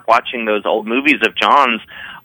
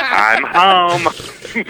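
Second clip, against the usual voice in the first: put-on higher, delighted Baltimore accent; 7 semitones higher than usual. Reacting to the airport announcer, Baltimore accent. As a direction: slip into the hometown Maryland accent. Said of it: "I'm like".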